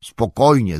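a touch of outcry; indignant exclamation. Acted. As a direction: throw the word back, mildly indignant. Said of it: "zawołał sam".

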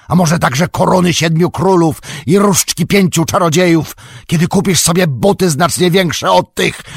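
loud, high, scornful shouting. A narrator's reading. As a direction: hurl the mockery down from the balcony. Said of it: "podnosząc głos do krzyku". (głośny, wysoki, szyderczy krzyk)

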